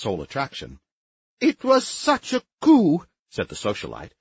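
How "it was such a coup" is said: much higher, fluttery society matron; warbling high voice. Acted. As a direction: warble it an octave up. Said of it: "in a voice at least an octave above her natural range".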